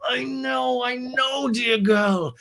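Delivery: very high, drawn-out mock sympathy; Lisa. Recapper playing Lisa soothing Ariana, hammed-up high voice. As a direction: coo it big in a put-on high voice.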